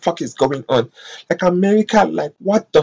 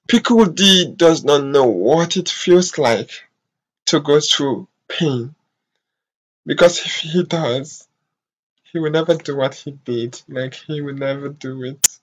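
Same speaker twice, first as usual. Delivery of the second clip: holding back tears. Real, not acted. Vlogger talks about Syrians going through pain, holding back tears. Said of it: "I don't wanna start crying".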